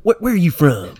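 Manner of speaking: loud, high-pitched nosy question; curious customer. Retold or imitated. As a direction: imitate a caller pouncing on an accent. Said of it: "people hear my accent, and they're like".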